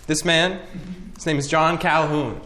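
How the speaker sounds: clickbait video narrator. Acted. Mock documentary narration.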